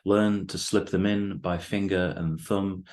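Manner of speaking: measured, deliberate poem recital with weighted pauses; poetry reading. Acted. Poet reads own poem to the host and listeners, measured recital. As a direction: read it line by line, letting each phrase land.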